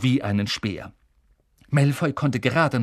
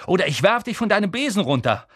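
fast, loud threat; 7 semitones higher, 4 dB louder, faster than usual. Acted. Harry threatening Malfoy, loud and quick.

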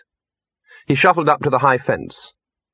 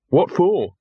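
higher-pitched, uneasy question; apprehensive; 6 semitones higher than usual. A narrator's reading. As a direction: ask it warily, dreading the answer. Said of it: "said Victor apprehensively".

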